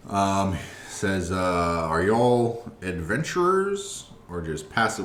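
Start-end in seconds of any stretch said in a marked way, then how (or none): 1.9-5.0 high, loud, cheery dragonborn greeting; jovial dragonborn. Acted. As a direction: boom out a jolly welcome. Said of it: "kinda jovial in his speak".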